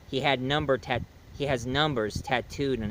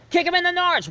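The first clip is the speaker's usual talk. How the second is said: put-on high, loud yelling kid; kid's shout; 5 dB louder than usual. The leader yelling at the horse, high loud shout. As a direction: shriek it like a panicked kid. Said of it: "the leader was like".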